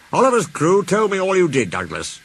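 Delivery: lightly voiced proud manager; Fat Controller pleased. A narrator's reading.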